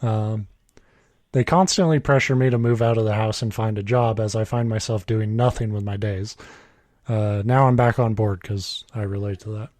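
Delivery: even, measured reading voice; story read aloud. A narrator's reading. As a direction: read the written story out plainly. Reads a written story aloud.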